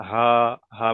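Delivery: হা with the mouth only slightly open; easy, thicker হা without opening wide; small ha. Shown as a demonstration. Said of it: "গালটা বেশি ফাঁক করতে হবে না".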